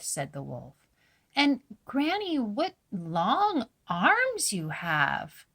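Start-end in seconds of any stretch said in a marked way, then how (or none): 1.4-5.4 put-on little girl voice. A narrator's reading. Girl questioning disguised wolf.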